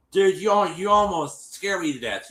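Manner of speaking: high-pitched mock fright complaint; retold "you scared me" outburst; imitated alarmed reproach. Acting out his reaction to her.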